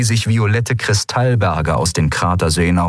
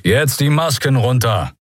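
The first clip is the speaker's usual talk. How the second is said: firm, raised-pitch command; commander's order; 5 semitones higher than usual. A narrator's reading. Commander orders captured pirates to unmask, firm raised command. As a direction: give the order firmly. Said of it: "befahl der Kommandant".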